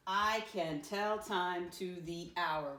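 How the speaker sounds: slow, deliberate classroom read-aloud; model reading. Shown as a demonstration. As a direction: read it out slowly, word by word. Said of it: "let me read it the first time".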